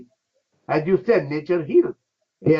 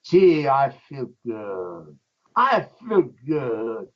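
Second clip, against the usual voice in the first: slow contented sigh; 3 semitones lower, slower than usual. Retold or imitated. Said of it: "you feel like".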